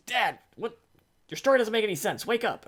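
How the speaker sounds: put-on high, insistent kid complaining; child's voice. Son elbowing sleepy dad, high insistent complaint. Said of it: "And he's like".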